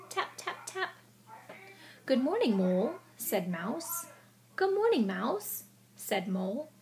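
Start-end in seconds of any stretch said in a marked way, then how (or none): 2.1-3.0 Mouse voice. Acted. Teacher voicing Mouse greeting. 4.6-5.6 Mole voice. Acted. Teacher voicing Mole greeting.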